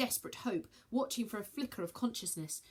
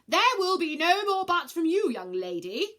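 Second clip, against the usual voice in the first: loud, higher shout; 10 semitones higher, 10 dB louder than usual. Acted. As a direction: shout her down. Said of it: "shouted Taurus".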